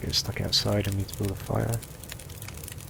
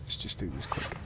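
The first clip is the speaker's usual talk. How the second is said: whispering; 6 semitones lower, 8 dB quieter than usual. Real, not acted. Whispered aside while playing.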